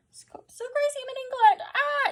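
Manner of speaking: acted-out giddy thrill; excited squeal. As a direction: squeal it like a thrilled new arrival. Anna arriving, thrilled, acted.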